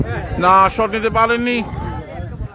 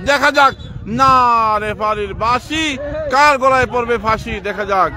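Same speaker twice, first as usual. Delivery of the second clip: lively live match commentary; football commentary. Real, not acted. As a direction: call the match with rising tension.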